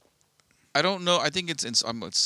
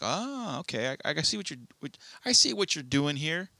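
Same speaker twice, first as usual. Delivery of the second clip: dawning realization; 4 semitones higher than usual. Retold or imitated. Acting a viewer's dawning understanding.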